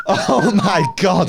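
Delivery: very high, slow squeal; excited fan squealing over a TV star; squealing excitement. Real, not acted. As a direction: squeal it with delight. Excited about Kat Von D.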